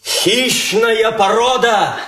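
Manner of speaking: solemn verse recital; poem recital. Acted. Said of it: "можно я стихами?".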